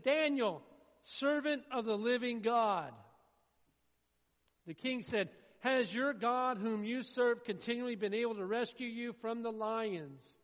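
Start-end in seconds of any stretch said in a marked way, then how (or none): 0.0-2.9 loud call to someone far below; a king shouting down into the den. Acted. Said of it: "He's shouting out to Daniel". 5.6-10.4 loud, high anguished question; a desperate king calling into the dark; shouting out. Acted. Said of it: "He's shouting out to Daniel".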